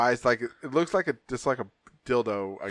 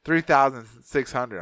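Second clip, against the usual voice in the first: correcting; 3 dB louder, slower than usual. Retold or imitated. Corrects the misheard figure.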